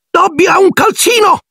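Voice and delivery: piercingly high elf cry of amazement; Dobby, incredulous. A narrator's reading. Elf cannot believe he has a sock, incredulous. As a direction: squeal in disbelief as a little elf.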